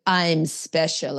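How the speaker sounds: put-on slow, drawn-out quote of boyfriend; boyfriend's slow declaration; imitating boyfriend. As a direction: imitate him, stretching each word out. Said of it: "And he goes".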